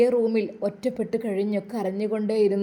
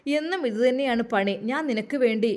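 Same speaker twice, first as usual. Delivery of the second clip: stern scolding; 3 semitones higher, 5 dB louder than usual. Acted. Arjun forbidding Nurjahan to come again, stern and loud. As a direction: lay down the law to her, sharply. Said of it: "അവൻ കർശനമായി അത് പറഞ്ഞു".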